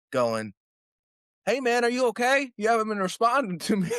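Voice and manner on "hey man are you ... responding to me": mock a buddy's alarmed call, pitched way up; imitated worried yell. Buddy rousing a man who passed out, high mock yell. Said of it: "L A yelling at me".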